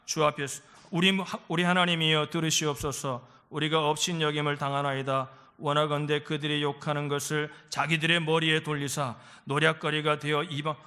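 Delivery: low, even reading-aloud voice; scripture reading. Real, not acted. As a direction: read the passage out low and steadily. Reads scripture with congregation.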